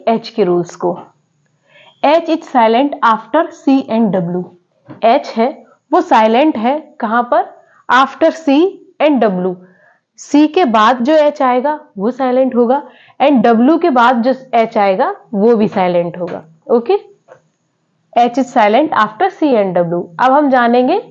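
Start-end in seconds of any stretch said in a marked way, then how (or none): 2.0-4.4 slow dictation. Shown as a demonstration. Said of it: "teacher dictating the rule". 18.1-20.0 slow dictation. Shown as a demonstration. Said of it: "teacher repeats rule slowly".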